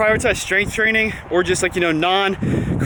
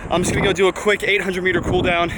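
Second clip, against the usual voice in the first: hyperventilating. Real, not acted. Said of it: "kinda hyperventilating right now".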